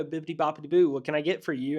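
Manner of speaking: loud, high, sing-song cheer; fake-nice drive-thru voice. Drive-thru worker greeting a customer in a fake-nice voice. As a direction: chirp it like a cartoon fairy. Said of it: "they go".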